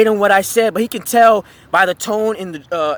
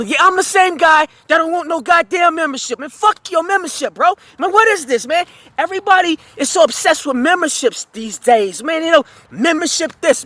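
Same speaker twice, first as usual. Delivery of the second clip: angry rant; 6 semitones higher than usual. Real, not acted. Angry rant about gym memberships.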